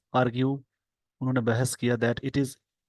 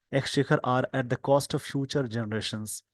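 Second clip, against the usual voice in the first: slow dictation; much slower than usual. Shown as a demonstration. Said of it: "slow dictation reading".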